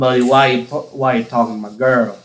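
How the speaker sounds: put-on a clumsy try at a thick Southern accent. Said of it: "That was awful".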